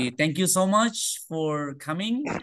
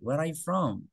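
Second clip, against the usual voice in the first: "Where are you from?" eased gently down to a falling "from"; sloping intonation; 3 semitones higher than usual. Shown as a demonstration. Teacher repeats the model for students, "Where are you from?" sloping downward. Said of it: "Dia agak me-, melandai".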